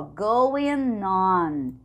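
"going on" run together as "goin-non"; slow "going on" with no gap; linked N. Shown as a demonstration. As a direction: join the N of "going" onto "on". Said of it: "O N juntando com o O".

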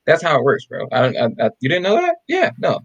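mock-sincere know-it-all; sarcastic. Telling co-hosts you just pick every day, sarcastic. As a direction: feign surprise that they didn't know, tongue in cheek. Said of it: "Yes, I'm being sarcastic".

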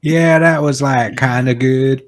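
Brit putting on Alabama; playful Southern American accent; mock Alabama accent. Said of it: "we got Freddie from Alabama over here".

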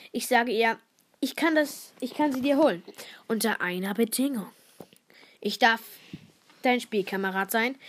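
reading her frog story aloud. Acted. Girl reading her school story to the podcast listeners, storyteller voice. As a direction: tell it as the frog, storyteller style.

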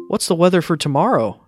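ordinary talk

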